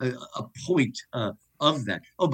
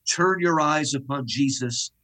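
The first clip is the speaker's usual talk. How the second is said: recited hymn; slower than usual. Shown as a demonstration. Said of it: "we would hear these words, which you'll recognize".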